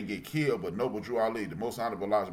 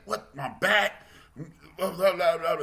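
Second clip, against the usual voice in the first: mock outrage; 8 semitones higher than usual. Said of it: "I was just angry, like".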